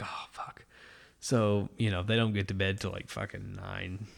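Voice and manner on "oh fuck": breathy under-the-breath whisper; whispered curse. Retold or imitated. Dad whispering a curse at the late bedtime, hushed. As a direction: mutter it so the kid can't hear. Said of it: "And I'm like".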